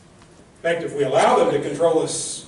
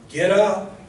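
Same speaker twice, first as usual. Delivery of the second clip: emphatic command; 3 semitones higher, 5 dB louder than usual. Acted. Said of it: "Notice how emphatic that is".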